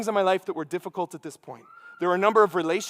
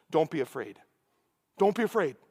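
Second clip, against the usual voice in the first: angel reassuring; 5 semitones lower, 5 dB quieter than usual. Retold or imitated. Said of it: "what's the first thing the angel says".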